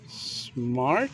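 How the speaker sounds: "smarter" split slowly as smart... ter; long pause before the added -er in "smarter"; ending demonstration. Shown as a demonstration. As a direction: show "smarter" being built, smart, then ter. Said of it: "is to add E R".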